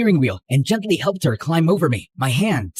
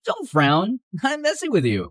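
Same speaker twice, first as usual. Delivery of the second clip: plain reading voice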